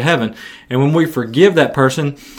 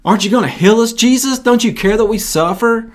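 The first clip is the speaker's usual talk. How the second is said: complaining lepers; 5 semitones higher than usual. Acted. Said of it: "asked Jesus".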